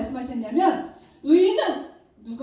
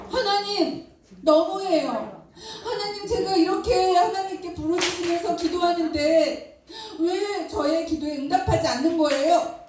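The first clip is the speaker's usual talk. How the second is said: complaining prayer; 3 semitones higher than usual. Acted. Habakkuk protests to God about unanswered prayer, aggrieved. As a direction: argue with God like a hurt child. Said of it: "따지면서 기도했어요".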